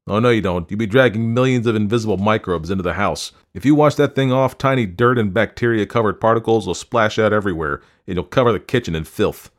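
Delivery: agitated husband laying down the law; alarmed scolding. A narrator's reading. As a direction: scold with rising urgency. Husband's germ rant in quarrel.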